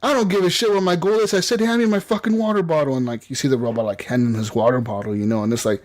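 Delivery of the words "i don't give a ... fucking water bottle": higher-pitched, irritated retort without shouting; mock angry jogger. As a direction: imitate a fed-up owner overruling his robot. Jogger snaps at his robot.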